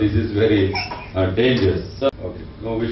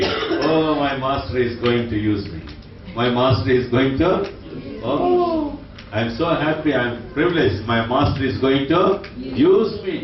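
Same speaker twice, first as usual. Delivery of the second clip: happy bamboo bush; 2 semitones higher than usual. Acted. Bamboo bush voiced in parable.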